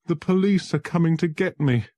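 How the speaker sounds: high, loud and alarmed; panicked fear. Acted. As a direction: sound hunted and terrified. Frightened man fears arrest.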